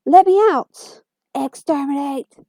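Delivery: loud, high robotic screech; Dalek shriek. Acted.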